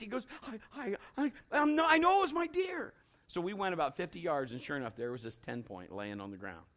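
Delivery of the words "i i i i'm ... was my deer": much higher, rising, louder at the end; stammering excited son. Retold or imitated. Son insists to dad excitedly it was his deer. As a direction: stumble then insist proudly.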